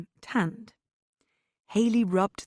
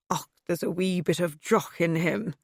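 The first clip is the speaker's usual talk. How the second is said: put-on hopeless Scottish accent, barely there; a half-hearted Scottish accent; bad Scottish accent. The speaker jokes about the dog in poor Scottish accent. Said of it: "hopeless attempt at a Scottish accent".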